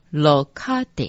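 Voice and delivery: 洛卡德 sounded out syllable by syllable; mantra pronunciation. Shown as a demonstration. Teacher showing learners how line twenty is read, pronunciation demo. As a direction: demonstrate 洛卡德 as "lo-ka-de". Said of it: "念成".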